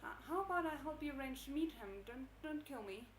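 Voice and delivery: high, loud stammering plea; desperate begging. Acted. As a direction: beg not to be killed. Captive begs for life.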